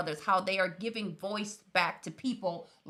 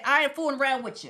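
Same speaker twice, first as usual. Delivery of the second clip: Master P quote; 4 semitones higher, 4 dB louder, faster than usual. Retold or imitated. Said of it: "Miller said".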